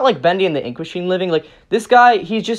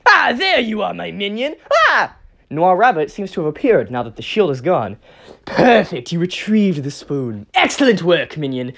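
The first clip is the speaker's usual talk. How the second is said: pleased villain. Acted. Villain greets returning minion.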